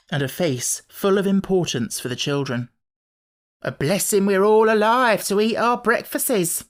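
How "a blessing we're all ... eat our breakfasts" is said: higher and louder, an ominous maid's voice; darkly. A narrator's reading. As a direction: say it darkly, full of doom. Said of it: "she said darkly".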